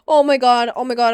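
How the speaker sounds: loud, stunned exclamation; amazed shout. Real, not acted. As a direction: blurt it out in disbelief. Amazed at seeing old base.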